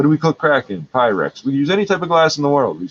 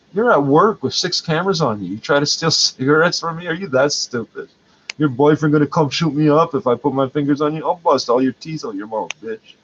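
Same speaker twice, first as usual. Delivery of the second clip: higher, raised scolding; a touch of the angry rant he gave her; retold telling-off; 3 semitones higher than usual. Vlogger replays scolding a girl stealing cigarettes, mildly heated.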